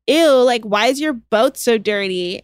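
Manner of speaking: imitating a rude newcomer turning up her nose. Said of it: "rude in that way where she'll be like".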